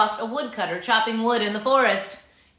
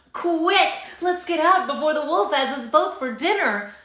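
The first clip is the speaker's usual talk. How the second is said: squealed; 4 semitones higher than usual. Acted. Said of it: "squealed the two little pigs".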